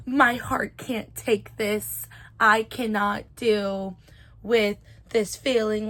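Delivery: slow, drawn-out melodramatic plea; mock dramatic. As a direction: imitate an overwrought heroine, dragging the words. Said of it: "like, it's so dramatic".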